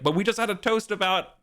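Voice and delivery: a hint of a hurt young man. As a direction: protest the broken promise lightly. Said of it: "and Arthur's like".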